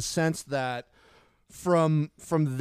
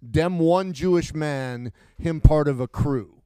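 imitating a rapper's bad Jamaican accent, slowed and louder; mock Jamaican accent; 6 dB louder than usual. Quoting the best line to his co-host in a mock Jamaican accent. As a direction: lay on a hammed-up Jamaican accent. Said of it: "a terrible Jamaican accent".

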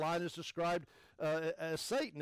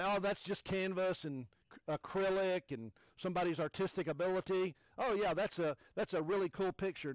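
dismissive onlooker; 4 semitones higher, 4 dB louder than usual. Retold or imitated. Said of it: "You might say".

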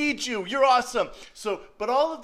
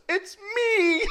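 put-on shy girl confession; 6 dB louder than usual. Girl confessing her crush.

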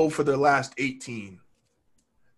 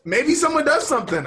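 higher, half-joking wish for a miracle; hopeless hope; 11 semitones higher, 4 dB louder than usual. Retold or imitated. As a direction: toss it up like a faint hope. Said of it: "and I'm like".

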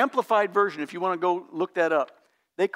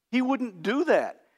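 ordinary talk, nothing marked

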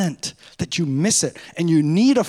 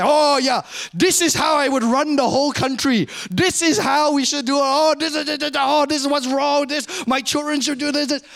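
put-on higher-pitched old Asian man's accent, insistent; old Asian guy; 6 semitones higher than usual. Pastor making fun of his own stereotype, old Asian guy accent. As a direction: parody an old Asian know-it-all's accent. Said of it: "The old Asian guy".

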